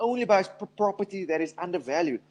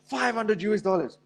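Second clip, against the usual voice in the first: higher, panicky neighbor voice; mock panic; 5 semitones higher than usual. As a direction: play the neighbor who is freaking out over a crash. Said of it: "your neighbor comes screaming".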